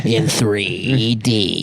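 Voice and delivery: slow trailer voice. Acted.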